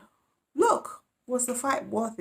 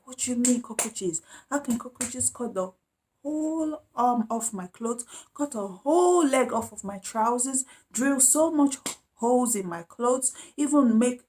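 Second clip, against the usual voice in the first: indignant retold rant, pitched higher; mad; 5 semitones higher than usual. Mad girl demanding an explanation about cockroaches, indignant and high. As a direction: retell her outraged protest in a higher voice. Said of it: "she was so mad".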